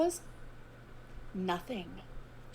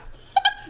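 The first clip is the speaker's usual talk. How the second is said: sharp laugh; 6 dB louder than usual. Real, not acted. Bursts out laughing.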